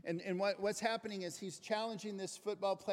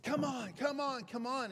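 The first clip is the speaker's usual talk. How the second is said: higher, louder repeated push; urging coach; 5 semitones higher, 3 dB louder than usual. Retold or imitated. Coach urges blindfolded player down the field, higher and louder. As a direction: keep driving him forward. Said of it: "the guy is going".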